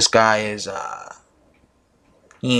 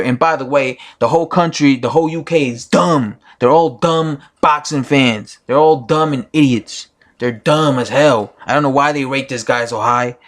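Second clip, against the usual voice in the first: mock rant. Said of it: "Can you imagine if I said that?".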